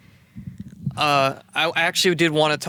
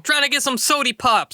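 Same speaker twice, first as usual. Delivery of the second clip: hick voice; 8 semitones higher than usual. Pretend. Continues the Brooklyn bit.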